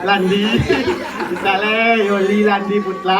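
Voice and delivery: Landi and Putla with L for R. Shown as a demonstration. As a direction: swap every R for L in Landi Putla. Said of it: "R ni ganti je L".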